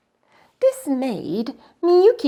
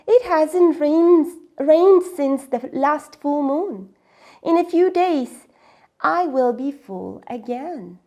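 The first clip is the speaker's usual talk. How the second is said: slow, drawn-out and louder; slow well voice; 4 semitones higher, 6 dB louder than usual. Acted. The well explaining to Miyuki, slow and measured. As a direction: let the well take its time.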